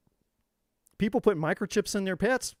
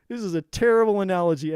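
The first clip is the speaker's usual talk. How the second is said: louder and firmer, the laugh gone; 6 dB louder than usual. Real, not acted. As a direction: say it straight and louder, owning it.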